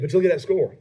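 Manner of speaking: put-on Australian accent. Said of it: "Did you try to do an Australian accent there?".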